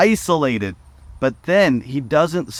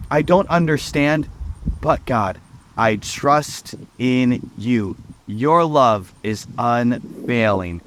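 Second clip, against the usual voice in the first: trusting prayer; 2 semitones lower than usual. Pretend. Preacher models a prayer of trust for listeners, slow and sincere. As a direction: let each word of trust sink in slowly.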